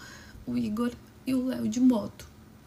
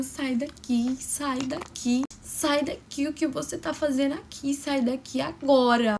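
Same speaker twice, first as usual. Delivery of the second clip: angry mock yell. Sister screaming at father.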